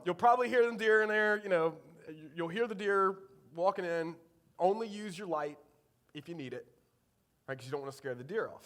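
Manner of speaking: lightly imitated Eastern North Carolina hunter; thick Eastern North Carolina accent. Dad's friend warns about scaring deer, light Eastern North Carolina accent. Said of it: "he's got a thick Eastern North Carolina accent".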